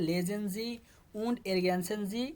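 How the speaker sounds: German read slowly and carefully; teacher reading the task in German, very slowly. Shown as a demonstration. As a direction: drag each German word out for the class. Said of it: "অর্থাৎ পড়ুন আপনি".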